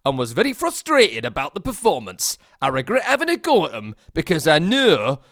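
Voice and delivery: put-on a patchy Geordie accent drifting toward Midlands. Host reads a Newcastle fan's Facebook apology in a Geordie accent. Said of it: "Gotta get into the Geordie".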